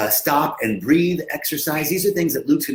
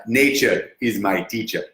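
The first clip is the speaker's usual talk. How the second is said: put-on African accent; 3 semitones lower than usual. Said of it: "I don't know how to do a African accent".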